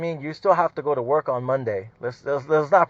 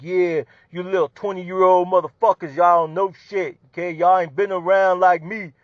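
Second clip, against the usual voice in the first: mock know-it-all supervisor, lording it over the young guys; lightly voiced bragging veteran talking down; mocking boastful boss; 4 semitones higher than usual. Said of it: "they wanna walk around like".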